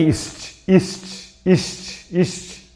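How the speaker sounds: ist whispered over and over as one syllable; ist in one push. Shown as a demonstration. Teacher whispering ist to show the syllable ends at T. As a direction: breathe ist repeatedly, softly. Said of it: "Meu aparelho fonador chega até aqui".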